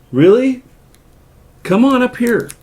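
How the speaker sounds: high sing-song voice for the cat; cat talk. Real, not acted. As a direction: coax the cat in a high sweet voice. Calling the cat.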